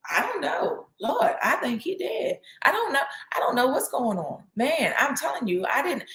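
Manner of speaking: hammed-up nervous dithering; mock flustered panic. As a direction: play a panicking man stammering excuses. Hypothetical flustered Elijah voice.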